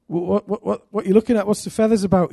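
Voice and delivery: stammered, fumbling start to small talk; awkward opener. Retold or imitated. Preacher approaching an old man looking at feathers, awkwardly. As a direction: re-enact a nervous first approach.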